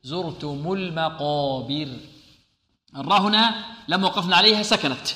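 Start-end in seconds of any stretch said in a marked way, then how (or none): 0.0-1.9 heavy ra in زرتم, light ta; careful tajweed articulation. Shown as a demonstration. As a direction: slowly sound out زرتم with a full, heavy ra. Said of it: "نفخم الراء ونرقق ماذا؟".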